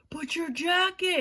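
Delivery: loud, high, drawn-out mock yell; imitating a pleading sketch boyfriend; boyfriend calling after her. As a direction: holler it slowly after a fleeing girlfriend.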